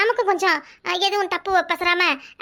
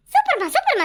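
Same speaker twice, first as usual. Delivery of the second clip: excited praise; 10 semitones higher than usual. Real, not acted. Daughter cheers mother.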